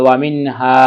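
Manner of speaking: "হা" held at the end; one-alif stretch. Shown as a demonstration. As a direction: draw out the final vowel of "ওয়া মিন হা". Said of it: "হাটা এক আলিফ টেনে পড়তে হবে". ("হা" এক আলিফ টেনে)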